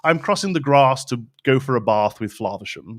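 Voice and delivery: posh British RP with long open "ah" vowels; received pronunciation. Shown as a demonstration. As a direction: demonstrate posh RP on grass and bath. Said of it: "That's how they would say it".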